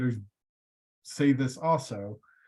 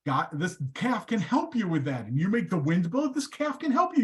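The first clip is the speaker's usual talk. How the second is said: Moses's voice climbing higher and higher as he pleads; Moses pleading; 5 semitones higher than usual. Retold or imitated. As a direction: sell it harder and higher with each line, like an eager salesman. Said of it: "He goes".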